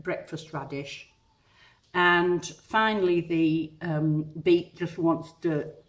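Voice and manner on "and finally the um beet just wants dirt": talking around a paintbrush held in the mouth. Real, not acted. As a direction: speak with a brush between your lips. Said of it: "My mouth, my voice went funny then because I was, working with a, a paintbrush in my mouth".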